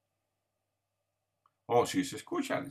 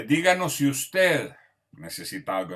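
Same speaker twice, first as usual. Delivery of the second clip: formal, courteous request, a touch louder; polite service request; 3 semitones higher, 5 dB louder than usual. Shown as a demonstration. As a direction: ask like a polite waiter. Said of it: "en vez de decir el nombre". (petición formal y cortés)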